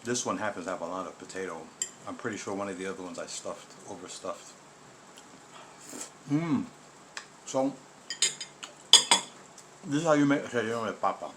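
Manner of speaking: talking while chewing; words round a bite of food; mouth full. Real, not acted. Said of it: "I'm sorry for speaking with my mouth full".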